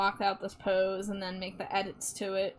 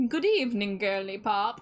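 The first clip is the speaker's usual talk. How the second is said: vampire voice. Pretend. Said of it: "I don't know how to do a vampire voice".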